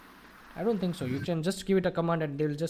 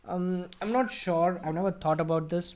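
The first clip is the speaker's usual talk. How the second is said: hesitant reply; 2 semitones higher than usual. Shown as a demonstration. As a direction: mull it over aloud. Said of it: "you give it a thought".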